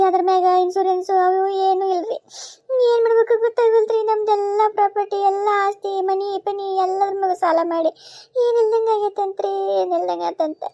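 stretched, tearful delivery sinking toward the end; slowing into helpless grief; despairing lament. Acted. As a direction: lament as if all is lost. Daughter-in-law laments family's financial ruin.

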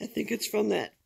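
hoarse raspy half-whisper after surgery; lost voice. Real, not acted. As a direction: talk through a sore, voiceless throat. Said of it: "I have no voice this morning".

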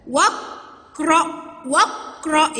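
"واقرأ" as waq-ra, no glottal stop; linked alef. Shown as a demonstration. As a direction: join wa straight to q in "واقرأ". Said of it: "يبقى انتي واصلة".

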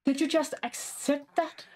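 stunned that the pet just accepted; surprised disbelief. Real, not acted. Pet accepts the training offer.

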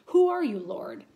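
startled question. Acted.

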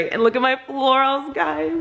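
high, delighted show-and-tell; thrilled to show off the flowers; excited gushing. Real, not acted. Showing off her wedding flowers.

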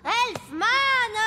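a miffed hero fixing the name; indignant correction. Acted.

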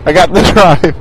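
low, determined hero voice; heroic voice. Pretend. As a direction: talk yourself up like a hero. Hero pep talk voice.

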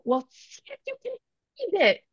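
imitating own yell back. Mother retelling her taunt at her son, high mock yell. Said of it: "I yell back".

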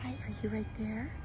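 soft coaxing whisper; luring a wild bird. Real, not acted. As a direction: lure it in gently.

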